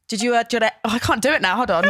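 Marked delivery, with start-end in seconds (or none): 0.1-0.7 halting Welsh chat-up attempt; Southern Valleys Welsh. Flirting at a pretend bar, broad Welsh accent. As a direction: try the pickup line in Welsh. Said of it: "really Southern Valley Welsh accent".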